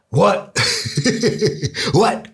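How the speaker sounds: high startled What with a laugh; mock rapper caught off guard, rising high. The rapper answering a goodnight call, startled and high. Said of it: "And Exhibit is like".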